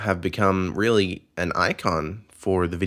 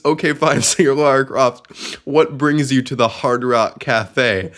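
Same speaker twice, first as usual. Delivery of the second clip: higher, louder, amused questioning voice; mock interviewer; 5 semitones higher, 3 dB louder than usual. Host reading a tweet as the guy questioning Lara. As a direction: play the guy asking, half laughing. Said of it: "Just one of them is".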